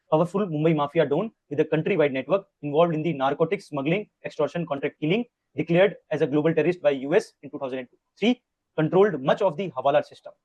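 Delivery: very slow, word by word, for notes; slow note-dictating read; slow dictation. Shown as a demonstration. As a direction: dictate so students can write.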